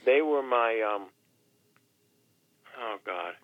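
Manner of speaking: a real, choked-up pause; getting emotional. Real, not acted. Guest choking up telling the host about his children, emotional. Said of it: "I'm getting emotional".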